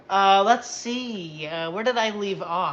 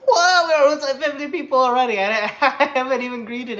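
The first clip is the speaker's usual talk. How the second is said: excited whoa; 5 semitones higher, 8 dB louder than usual. Real, not acted. Excited at viewer count jump.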